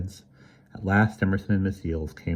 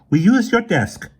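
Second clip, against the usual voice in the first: grim smile; 9 dB louder than usual. A narrator's reading. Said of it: "with a grim smile".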